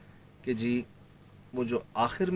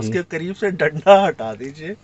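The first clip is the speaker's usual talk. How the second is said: urgent warning; 6 dB louder than usual. Retold or imitated. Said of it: "Sohail بھائی نے مجھے دو بار کہا".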